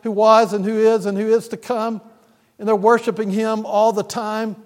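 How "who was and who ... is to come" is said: louder, ringing cry of holy, holy; crying out in worship. Retold or imitated. Preacher voicing angels crying out before God's throne, a louder ringing proclamation. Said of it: "they're crying out".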